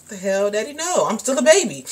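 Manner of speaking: high, whiny protest; incredulous protest. Retold or imitated. Answering dad's pregnancy question, incredulous and high. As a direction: protest to dad like a kid. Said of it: "I'm like".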